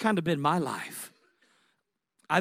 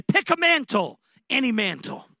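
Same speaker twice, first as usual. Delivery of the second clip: a much higher, ringing call; inviting voice; 7 semitones higher, 4 dB louder than usual. Retold or imitated. Heavenly voice inviting the young man, high and ringing. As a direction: call out the offer brightly, then ease down. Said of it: "he heard a voice say".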